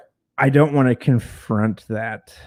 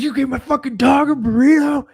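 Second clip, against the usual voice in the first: much higher, incredulous retold yell; mock screaming; 4 dB louder than usual. Roommate screams at him over the dog's burrito, mock yell. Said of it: "And he started screaming".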